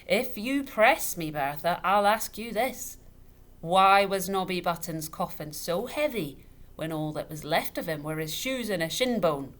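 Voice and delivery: tipsy father blustering at the widow. A narrator's reading. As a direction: lean into it, glass in hand. Father presses his accusation.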